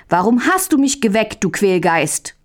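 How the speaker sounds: lightly voiced cranky brother just woken; mild angry cry. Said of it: "rief Möndlein böse".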